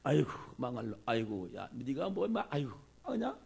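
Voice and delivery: mock scolding. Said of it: "욕하고 저주하고 막 그랬어".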